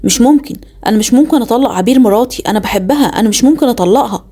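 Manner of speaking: astonished disbelief. Acted. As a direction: refuse to believe you divorced her. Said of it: "رد عليا باستغراب واندهاش".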